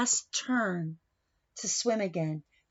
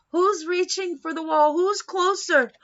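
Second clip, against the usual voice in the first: higher and louder with each question; rising suspense; 7 semitones higher, 6 dB louder than usual. A narrator's reading. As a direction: build the suspense to the finish. Suspense at race finish.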